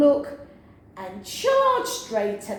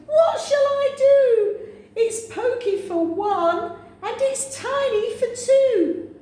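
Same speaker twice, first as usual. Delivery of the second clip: crying out; 9 semitones higher than usual. Acted. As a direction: wail it out in despair.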